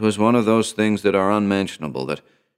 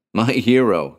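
lightly raised, eager cry; cried out; 4 semitones higher, 3 dB louder than usual. Acted. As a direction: call him your hero. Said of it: "cried Alicia".

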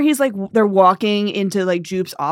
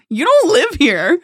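loud retold snap; 9 semitones higher, 7 dB louder than usual. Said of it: "she's like, goes".

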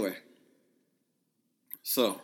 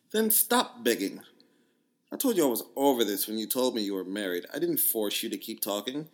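put-on Jamaican accent. Reading her dismissive text in a mild Jamaican accent. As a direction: read her dismissive text in an island lilt. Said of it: "my Jamaican accent is pretty good".

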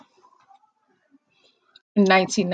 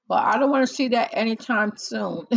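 laughing; 3 semitones higher than usual. Real, not acted. Laughing joke about the end.

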